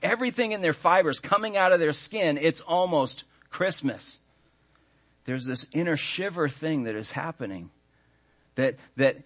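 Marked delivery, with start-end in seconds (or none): 0.0-4.2 imitated excited kids. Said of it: "our kids aren't running around saying".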